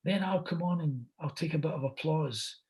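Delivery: high put-on voice of a film star; Al Pacino. Star asks the host to agree to changes, high imitation. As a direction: lay out a plan in a high, imitated voice. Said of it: "He says".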